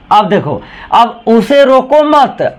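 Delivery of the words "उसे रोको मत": high, drawn-out "उसे रोको मत" as one unit; stop after मत. Shown as a demonstration. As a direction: join रोको to मत, then halt. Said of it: "अब यहाँ कॉमा लगाए हैं".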